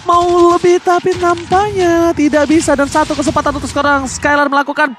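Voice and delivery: rising hype, loud and high; fighting game announcer. Acted. Hyped play-by-play of a teamfight.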